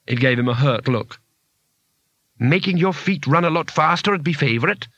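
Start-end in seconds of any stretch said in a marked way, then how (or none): 2.4-4.9 a touch of grim urgency; higher, tersely unimpressed suggestion. Acted. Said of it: "said Bethan grimly".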